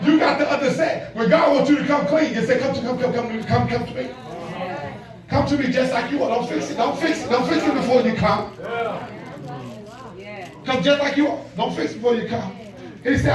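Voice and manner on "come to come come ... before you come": soft, tender calling; gentle invitation. Acted. God tenderly calling the lost child home, soft. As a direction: coax them in softly.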